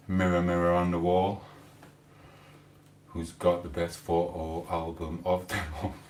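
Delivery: drowsy, just-woke-up voice; sleepy husky voice, fading soft; sleepy husky good morning. Real, not acted. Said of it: "I've just woke up".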